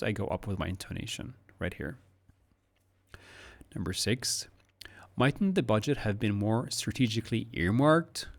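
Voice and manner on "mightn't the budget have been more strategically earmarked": "earmarked" hit firmly; hard stress on earmarked. Shown as a demonstration. Teacher models hard stress on "earmarked" for the student. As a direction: punch the word "earmarked". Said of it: "Hard stress on earmarked".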